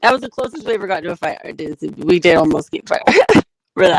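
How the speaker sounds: crackling, popping mic; talking into a popping mic. Real, not acted. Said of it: "Your mic is popping".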